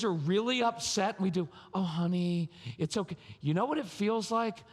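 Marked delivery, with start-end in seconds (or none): 1.7-3.2 mildly patronizing soothing; mock a parent soothing, a touch sugary; overly sweet. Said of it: "really overly sweet sounds very patronizing".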